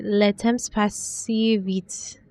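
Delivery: slow, careful French, echoing her lover's saying; French phrase. Retold or imitated. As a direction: quote it softly in French, lingering. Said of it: "As you always say".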